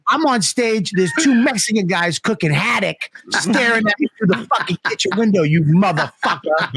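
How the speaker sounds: imitating a furious friend's complaint; retold angry rant. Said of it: "he was seriously fucking angry with me".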